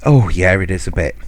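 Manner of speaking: imitating mum in dead earnest; serious. Mum earnestly answering a misheard waiter, imitated seriousness. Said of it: "she's so serious when she does it".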